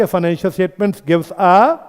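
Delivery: very slow, each word spaced out for notes; slow dictation. Shown as a demonstration. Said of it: "आज की class में ये word बड़ा ज़रूरी है". (बहुत धीरे, लिखवाते हुए)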